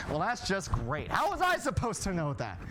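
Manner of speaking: normal talking voice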